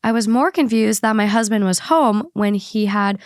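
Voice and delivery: even, measured read-aloud voice; podcast host reading a written account; reading a post aloud. Acted. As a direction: read out a personal story clearly. Reads the listener post aloud.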